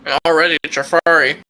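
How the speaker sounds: talking through a cookie; words around a bite of cookie; mouth full. Real, not acted. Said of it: "Sorry, I'm having a cookie here".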